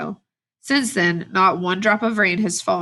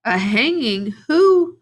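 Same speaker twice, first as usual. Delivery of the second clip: sudden high, loud gasp on Who; reader's shocked cry, much higher and louder on Who; 4 semitones higher, 4 dB louder, slower than usual. A narrator's reading. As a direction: jolt of alarm rising to a cry. Shocked to hear of a hanging.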